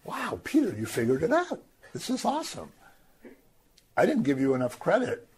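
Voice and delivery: high, over-the-top impressed; mock gushing praise. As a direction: fake amazement at Peter's answer. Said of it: "Jesus doesn't say".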